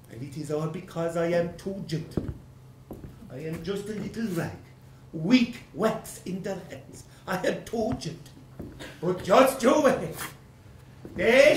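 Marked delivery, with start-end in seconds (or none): 0.1-8.3 mock self-pity. Creditor pitying himself alone, lower mock self-pity. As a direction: lower and softer, sorry for himself.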